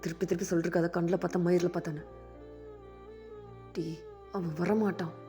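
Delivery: loud, low, quick rebuke; angry snap. Acted. Daya telling Jameen the boy won't come, harsh and loud. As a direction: cut his dreaming short.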